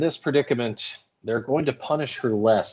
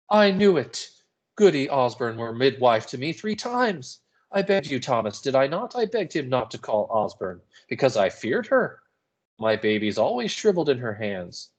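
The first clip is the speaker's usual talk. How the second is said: frightened outburst; 3 semitones higher than usual. Acted. Mrs Putnam's outburst.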